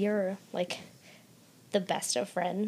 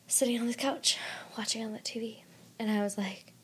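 hushed retelling whisper; 5 dB quieter than usual. Retold or imitated. Telling a friend how she watched alone, whispering. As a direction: drop to a whisper as you remember.

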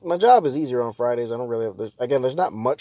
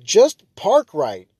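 exasperated plea; 5 dB louder, much slower than usual. Retold or imitated. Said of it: "'cause I'm like".

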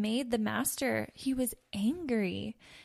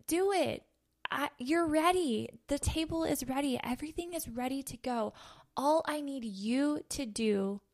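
higher and louder, easing off toward the end; God urging loudly; 4 semitones higher than usual. Acted. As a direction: press them on, growing gentler. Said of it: "And God saying".

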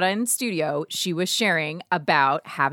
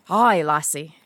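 mock Scottish; 2 semitones lower, slower than usual. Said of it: "Somewhat Scottish".

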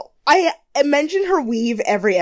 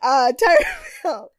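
announcer voice; 6 semitones higher, 5 dB louder, slower than usual. Retold or imitated. Echoes announcement bigger.

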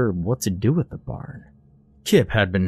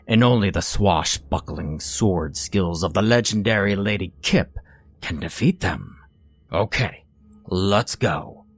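pirate voice. Acted. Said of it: "I said loudly in my best pirate voice".

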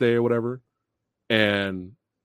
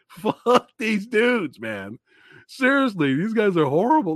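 retold angry rant; 10 semitones higher, 4 dB louder than usual. Venting at villains during movie.

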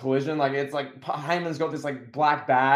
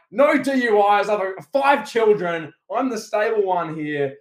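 mock indignant outburst, louder at first; Roman Reigns; 5 semitones higher, 4 dB louder than usual. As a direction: protest like a wrestler starting to rant. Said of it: "Roman just goes off".

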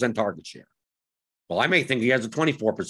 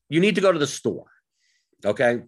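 patronizing. Real, not acted. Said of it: "I sound so patronizing".

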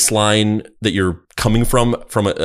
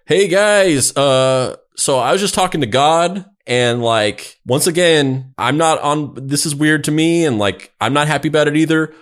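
higher-pitched, hesitant mock announcement; Joseph Smith; 5 semitones higher than usual. Prophet telling the guys about a new rule from God, mock-apologetic. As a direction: imitate a sheepish man passing on awkward news. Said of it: "so he was like".

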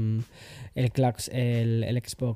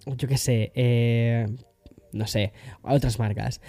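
ordinary talk

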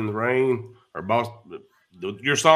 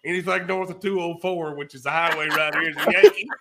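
starts plain, ends in a high loud yell on Yankee; mock rant climbing to a shout; building to a yell; 4 semitones higher, 3 dB louder than usual. Coworker retold, building to shout.

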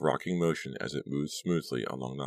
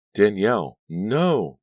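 high, loud frantic cry; frantic terrified cry; 6 semitones higher, 7 dB louder, slower than usual. A narrator's reading. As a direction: cry out in terror. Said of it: "Danielle cried".

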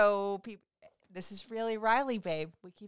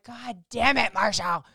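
louder playful curse; a hammed-up foiled groan; mock frustration; 3 semitones higher, 4 dB louder, slower than usual. Wife retelling how her husband held back tears, mock-annoyed. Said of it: "And I'm like".

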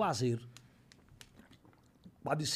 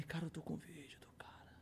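awed whisper, much softer; 16 dB quieter than usual. Retold or imitated. Telling his friends he has the video, whispered. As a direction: whisper it like a secret.

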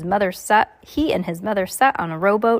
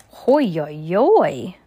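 dismayed exclamation; 2 semitones lower, 4 dB louder, much slower than usual. Real, not acted. Reacting to grisly story death.

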